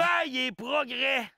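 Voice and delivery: slow, booming proclamation; shouted slogan. Acted. Co-host cutting in with the village slogan, shouted.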